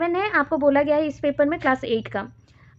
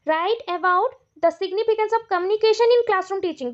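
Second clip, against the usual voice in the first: very slow, word by word, for students to write down; reading an exam question aloud at dictation pace; 4 semitones higher, much slower than usual. Shown as a demonstration. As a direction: dictate it slowly so they can copy.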